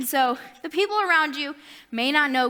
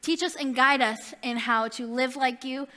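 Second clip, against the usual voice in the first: prayer. Acted. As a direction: pray it gently, winding down to the amen. Closing prayer.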